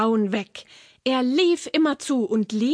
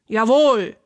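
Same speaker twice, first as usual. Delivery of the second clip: lightly voiced troll, loud single word; troll's reply; 5 dB louder than usual. A narrator's reading. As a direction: agree loudly with a hint of troll. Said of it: "sagte der Troll". (lautes, leicht gespieltes Troll-Jawohl)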